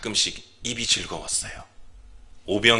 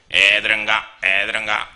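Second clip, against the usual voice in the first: market medicine peddler; 5 dB louder than usual. Retold or imitated. Medicine peddler clearing children from the marketplace crowd, loud chanting call. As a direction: shoo kids off like a street peddler. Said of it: "이런 톤으로 꼭 그래요".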